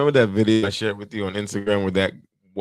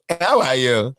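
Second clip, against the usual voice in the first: put-on Nigerian-accented customer, pitched up; mimicked singsong Nigerian accent; 5 semitones higher, 3 dB louder than usual. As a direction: greet in a lilting Nigerian accent. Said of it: "It's like they singing".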